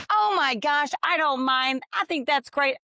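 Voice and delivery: high, bright gushing agreement; sweet eager lady. Retold or imitated. Kind wife eagerly agreeing to switch seats, high and gushing. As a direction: gush like a delighted stranger.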